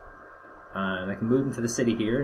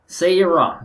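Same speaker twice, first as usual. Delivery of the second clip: bursting out with the name, much higher and louder; loud exclaim; 7 semitones higher, 10 dB louder than usual. Shown as a demonstration. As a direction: call the name out in sudden delight.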